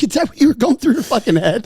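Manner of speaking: very high-pitched disbelieving question; mock incredulity. Son retelling his reply to dad, high incredulous voice. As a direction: squeal the question in amused disbelief. Incredulous retort after the retold rant.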